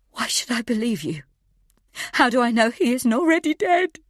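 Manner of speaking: high, rising into a loud desperate cry; panicked mother yelling about her son; shouting, sobbing. Acted. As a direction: scream it through tears at the captor. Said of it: "I'm shouting, sobbing".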